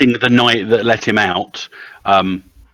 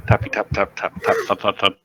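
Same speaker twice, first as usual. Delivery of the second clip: tapping sounds voiced like keystrokes; imitated typing noise; 3 dB quieter, faster than usual. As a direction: patter out mock keyboard taps. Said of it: "as Gaz starts typing".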